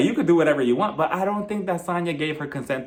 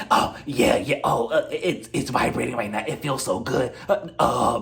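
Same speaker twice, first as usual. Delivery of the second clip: breathy mock moaning, haltingly overdone; fake pleasure; 4 semitones lower than usual. Marlo faking it for Kandi on the bus, fake pleasure. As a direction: badly fake that it feels good. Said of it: "but obviously it was so fake".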